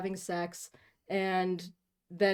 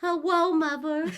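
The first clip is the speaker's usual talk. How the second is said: high, loud put-on ooh voice; 10 semitones higher, 7 dB louder than usual. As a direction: greet mother in a high, silly ooh-ooh voice. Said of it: "Not the freaking ooh, ooh voice again".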